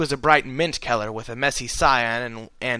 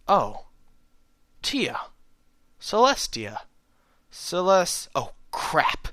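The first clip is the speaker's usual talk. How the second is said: dawning panic; 5 semitones higher, slower than usual. A narrator's reading. Narrator realizing who she is.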